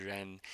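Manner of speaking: ren, curled tongue near the palate, not touching; Chinese ren. Shown as a demonstration. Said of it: "as close to the roof of your mouth".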